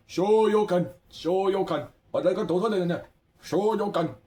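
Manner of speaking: high, loud game attack call; imitated arcade fighter shout; mimicked battle cry. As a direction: call out a fighting move, drawn out on the first syllable.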